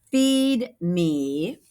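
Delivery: monster demanding food; hungry thing. Acted. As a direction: growl it like a hungry creature.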